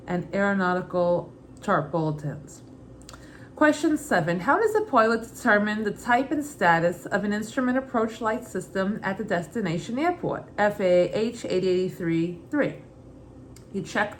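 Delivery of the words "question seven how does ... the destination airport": put-on Brooklyn accent. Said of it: "Every question I'll read in my mother's Brooklyn accent".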